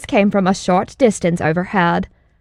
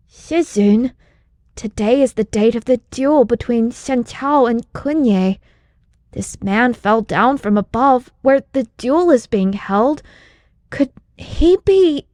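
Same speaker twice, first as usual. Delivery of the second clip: put-on higher, curious young man voice; young disciple; 4 semitones higher than usual. Disciple suggests to his master who fell, higher and wondering. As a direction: build toward the question, rising. Yu Xingyan speculating.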